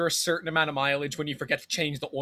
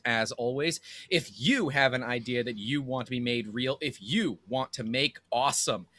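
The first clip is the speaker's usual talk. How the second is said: radio voice. Acted. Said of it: "I'm really actually feeling your radio voice".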